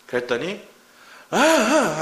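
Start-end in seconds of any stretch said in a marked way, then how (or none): 1.3-2.0 high, louder mock whine of a stubborn kid; child's protesting whine. Father imitating his daughter's fussy protest, high whine. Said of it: "하면서 막 하는 거예요".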